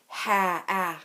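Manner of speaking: ah said as a short clipped vowel; short a sound. Shown as a demonstration. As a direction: isolate the short ah. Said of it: "Is ah a long sound or a short sound".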